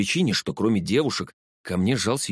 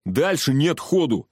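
higher, slow emphatic call; raised, urgent voice; 6 semitones higher, slower than usual. A narrator's reading. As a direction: announce it urgently to the back. Shout from the car's front.

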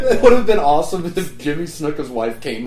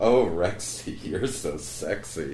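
swooning fan voice; 8 semitones lower, 7 dB quieter, much slower than usual. Retold or imitated. Mocking Rex Manning swoon.

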